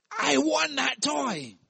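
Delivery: high, slow crying whine; wailing child. Pretend. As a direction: bawl it like a kid denied a toy. Boy denied toy, voiced.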